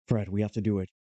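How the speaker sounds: lightly voiced action-hero impression; a hint of a film-star voice, urging; Nicolas Cage. Hero urging Fred to act, lightly impersonated film star. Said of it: "this is how Nick Cage talks".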